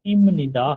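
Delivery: इम निदा with m instead of b in इम; teacher models इम निदा with m sound; correct reading. Shown as a demonstration. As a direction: say इम निदा, lips closed on m. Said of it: "पढ़ना है आपने इम निदा".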